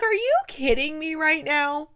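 high, loud, slowing on the last words; stunned disbelief. Retold or imitated. Reviewer reliving first sight of Doctor Greg, loud excited disbelief. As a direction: replay the gasp of seeing him on screen. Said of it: "I about fell out of my chair. I was like".

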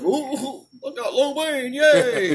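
high silly cheer; mock happy dummy. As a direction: play yourself as a naive fool. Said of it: "stupid me was just like".

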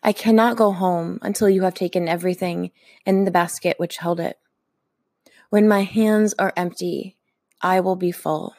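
slow, measured poem reading with long pauses; poetry reading. Acted. Poet reading a giveaway poem to listeners, measured and slow. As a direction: read it like an offering to listeners.

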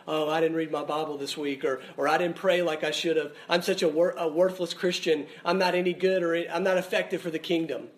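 mild mopey grumble; mock moping. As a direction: imitate a sulking Christian, lightly. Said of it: "sit and sulk and mope and go".

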